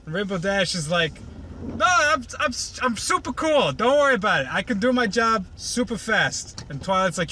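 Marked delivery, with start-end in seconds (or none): 1.7-6.6 cocky mock boast. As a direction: brush it off like a show-off cartoon pony. Rainbow Dash boasting.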